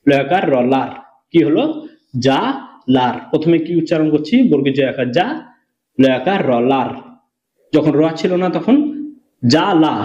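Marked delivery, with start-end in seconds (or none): 2.3-3.1 যা alone, then লার drawn into one syllable; যা and লার as two beats, র closing the second; final letter joined on. Shown as a demonstration. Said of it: "আগের অক্ষরের সঙ্গে আবার টেনে পড়তে হবে". 9.5-9.9 যা, লা as two open beats; open separate syllables. Shown as a demonstration. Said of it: "এখানে শেষ করে দিচ্ছিলাম".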